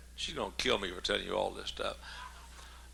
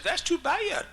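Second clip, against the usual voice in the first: very high, hammed-up southern twang; mock southern squeal, vowels split in two; exaggerated southern accent; 4 dB louder, slower than usual. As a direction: tease with an over-the-top southern accent. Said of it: "kidding her about her southern accent".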